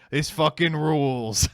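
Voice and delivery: slow, worn-out line cook; deadpan kitchen worker. Acted. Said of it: "Aborted line cook voice".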